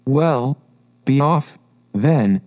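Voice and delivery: a hint of sulkiness, lightly voiced; sulky. Pigeon sending Alice away, mildly sulky. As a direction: dismiss her grudgingly. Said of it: "said the pigeon in a sulky tone".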